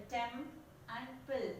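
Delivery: "temp and pill" as two separate sound units; syllable by syllable. Shown as a demonstration. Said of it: "Here two units of sounds".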